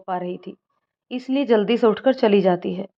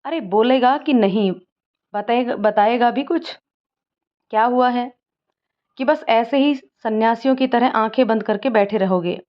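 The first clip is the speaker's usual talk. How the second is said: mildly irritated, a bit raised; exasperated friend nagging for an answer; 2 semitones higher than usual. Acted. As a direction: press him, annoyed and impatient. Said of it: "अनुराग चिढ़कर बोलता है".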